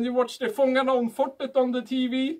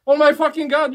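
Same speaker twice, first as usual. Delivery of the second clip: mock shock; 3 semitones higher, 6 dB louder than usual. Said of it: "you think".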